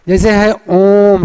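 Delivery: ओम stretched slowly; prolonged om. Shown as a demonstration. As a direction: hold ओम long. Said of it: "संबोधन में".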